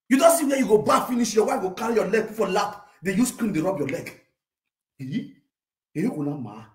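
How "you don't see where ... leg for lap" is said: shouted singsong. Acted. Shouted sung mockery.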